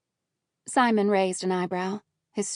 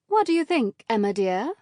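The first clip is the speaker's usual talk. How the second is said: loud, flirty fair-wench voice; playing the bold tavern wench; brash tavern wench; 2 semitones higher, 4 dB louder than usual. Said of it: "A little louder, a little more brash and flirtatious".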